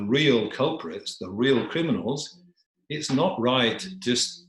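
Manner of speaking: lightly voiced, deliberate remonstrance; reasoning dog.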